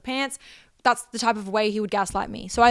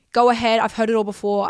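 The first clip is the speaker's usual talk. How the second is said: louder defiant dare; 3 dB louder than usual. Real, not acted. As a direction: Go ahead pushed out louder.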